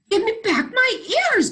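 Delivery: high, loud mock bark. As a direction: bark the demand like a small dog. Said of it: "barked the kitten".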